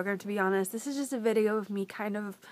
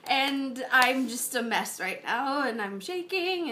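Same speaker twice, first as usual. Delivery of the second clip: fighting through happy tears; real emotion after crying; shaky with tears; slower than usual. Real, not acted. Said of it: "I started crying".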